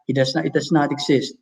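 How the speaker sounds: quick, throwaway "does not exist"; flat, rushed. Shown as a demonstration. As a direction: toss it off without weight. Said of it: "You can't say na".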